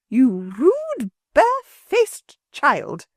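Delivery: high, slow, drawn-out indignation; angry woman scolding a rude child; outraged scolding. A narrator's reading. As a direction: drag out the insult in disgust.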